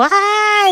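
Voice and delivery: short high mock scream of the swing rider; a quick high "ah" like someone on a swing; imitated scream. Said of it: "unos que oía yo". (grito agudo imitado, breve)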